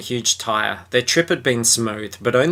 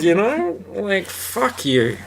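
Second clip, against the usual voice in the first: mock annoyance; 8 semitones higher, slower than usual. Real, not acted. Mock-angry at stereotypes.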